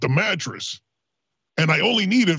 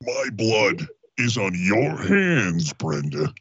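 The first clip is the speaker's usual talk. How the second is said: dramatic dying voice; 10 semitones lower, slower than usual. Acted. Mock dying accusation.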